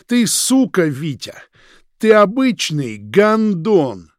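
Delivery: loud, high, slow insulting yell; furious cursing. A narrator's reading. Roman cursing Vitya to his face, furious. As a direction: curse him out.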